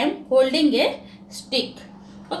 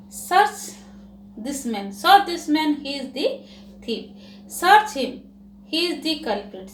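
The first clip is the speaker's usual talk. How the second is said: commanding order. Acted. Birbal ordering the guard to search him, commanding. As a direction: bark it at the guard.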